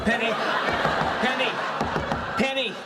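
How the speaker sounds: rising urgent calls; urgent calling. Real, not acted.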